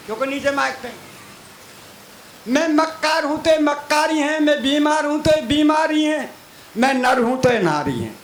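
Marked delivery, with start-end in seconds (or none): 2.5-8.1 higher and climbing, punching each half; stage poet topping the heckler; rising comic retort. Real, not acted. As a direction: hammer the comeback with growing glee.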